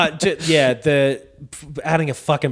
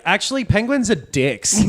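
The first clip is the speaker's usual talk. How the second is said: higher-pitched parody of corporate spin; mock oil-company spokesman; 8 semitones higher than usual. Oil company spinning a spill to the public, mock justification. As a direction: put on a brazen spokesman's excuse. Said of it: "coming out there and being like".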